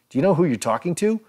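retold rapid angry demand. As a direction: fire it off at him like an outraged boss. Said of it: "Grossman demanded".

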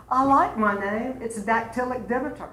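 lightly voiced actress answering a talk-show host; Stephanie's quip. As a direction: toss off the name line like a witty guest. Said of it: "And she said".

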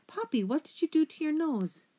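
high, alarmed question; shocked mother asks. A narrator's reading.

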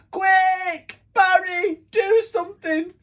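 high, loud panicked plea; urgent cry. Acted. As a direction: beg for help in a panic. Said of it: "cried the fish".

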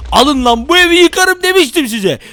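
loud, gloating mock rage; angry act. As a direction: gloat over the wrecked house. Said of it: "sinirli taklidine geçelim". (zafer kazanmış sahte öfke)

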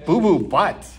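breaking into laughter; laughing. Pretend. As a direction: laugh through the silly name. Forced silly line, laughs.

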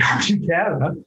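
can't keep a straight face at the irony, laugh escapes mid-line. Real, not acted. Retelling the client's cancellation call, laughing at the irony. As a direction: quote the client while a laugh breaks through on "hard". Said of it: "I shouldn't laugh either".

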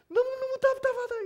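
very high, loud exasperation; frustrated cry. Acted. Preacher voices God's frustration, a high exasperated cry. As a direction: cry out at the end of your patience.

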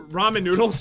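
"ramen noodles" said in place of Roman numerals; knowingly wrong "ramen noodles", slipped in straight; deliberate mispronunciation. Pretend. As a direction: say "ramen noodles" casually, as if it were correct. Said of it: "I'm saying it incorrectly".

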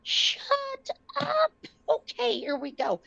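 mother hearing her husband can come, crying; choked up. Retold or imitated. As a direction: voice cracking with tears. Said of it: "And I was like".

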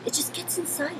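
lifted, eerie ghostly tone; eerie high voice. Shown as a demonstration. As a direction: say it like a spirit inside you. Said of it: "just the actress in me".

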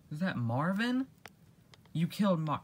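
sudden high, loud disbelief; shocked cry on finding Marvin dead; shocked outburst. Acted. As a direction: it hits you that your friend is dead. Discovering friend's body.

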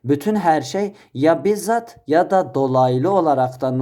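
"bütün", "bizzat" ve "dolaylı" sözlerini tek tek vurgula; "ya bizzat ya da dolaylı" derken her seçeneğin üstüne bas; üstüne basa basa. Shown as a demonstration. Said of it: "üstüne basa basa söylemişim ki". ("bütün her şey" sözünden başlayarak basa basa, vurgulu söyle)

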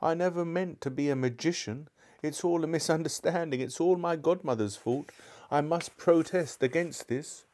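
high, plaintive, self-pitying whine; wailing. A narrator's reading. Frightened uncle protesting in the darkness, wailing on. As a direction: lament your lot in a high wail. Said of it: "it was wailing on".

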